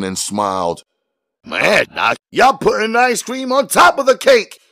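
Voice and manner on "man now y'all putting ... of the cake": much higher, hammed-up jeering voice; mocking Jimmy. A narrator's reading. Jimmy jeering at his partners, high mocking voice. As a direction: crow it at them, amused.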